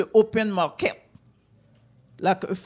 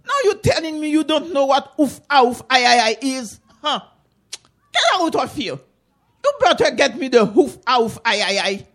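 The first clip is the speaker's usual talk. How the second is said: louder, higher cross auntie; scolding auntie; 4 semitones higher, 5 dB louder than usual. Acted. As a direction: scold him like a mean auntie.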